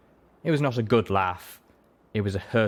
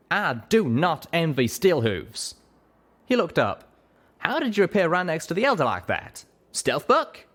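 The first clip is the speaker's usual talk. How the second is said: lightly voiced young pegasus, higher and curious; 9 semitones higher than usual. A narrator's reading. Pegasus asks the griffin how she sneaked in, curious. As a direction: ask with easy frontier curiosity.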